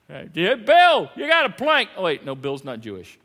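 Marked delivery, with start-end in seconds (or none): 0.1-1.9 teasing joker. Acted. Acting joking crowd member.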